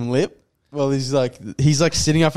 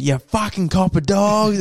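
higher, drawn-out mock jeer; re-enacted taunt, pitched up and stretched; retold heckle; 6 semitones higher than usual. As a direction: call it after the cops, dragging the words out. Repeats the heckle at police.

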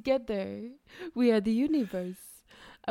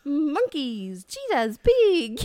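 Christopher Walken voice; 3 semitones higher, 4 dB louder, much slower than usual. Acted. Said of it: "better Christopher Walken".

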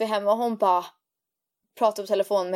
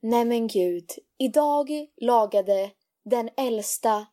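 parent on social media. Retold or imitated. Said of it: "föräldrar på sociala medier skriver".

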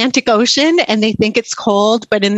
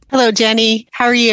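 smiling voice. Real, not acted. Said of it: "I can hear the smile in your voice".

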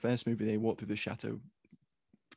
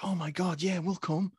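pitched up, gushing yes; hammed-up excited crew; mock eager agreement; 4 semitones higher than usual. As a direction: play the gullible recruits jumping at the offer. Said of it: "And they were like".

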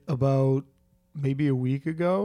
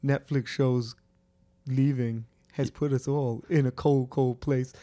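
put-on Jamaican and Irish mashup accent; melting pot accent, hammed up; mishmash accent. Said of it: "he's doing accents".

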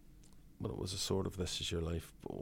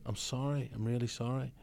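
sincere apology; 5 semitones higher than usual. Retold or imitated. George Best apologizing to Eamon, earnest and higher. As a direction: plead sorry simply and sincerely. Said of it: "he just said".

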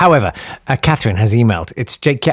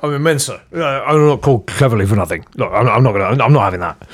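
James Cleverly impression; 4 semitones lower than usual. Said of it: "have a go at James Cleverly".

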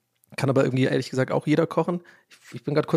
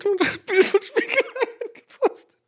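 squeaky high giggle, slow; words squeezed out through laughter; laughing hard; slower than usual. Real, not acted. Podcaster repeating his punchline, cracking up.

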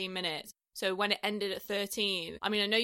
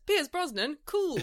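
excited; 7 semitones higher, 3 dB louder than usual. Retold or imitated. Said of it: "my note says".

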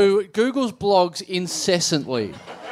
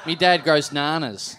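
slow, low Australian bogan; put-on Aussie drawl, amused; bogan accent; 4 semitones lower, slower than usual. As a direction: play a simple bogan boast. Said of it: "A bogan does not use the word".

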